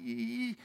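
high, soft squeal of dread; cringing "eee". Retold or imitated. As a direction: imitate a wordless cringe, high and small. Imitates his cringing dread.

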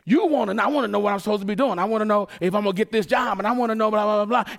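fast, whiny wanting; impatient demands. Retold or imitated. Mocking a believer demanding answers from God, fast and whiny. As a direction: rattle off the wants impatiently.

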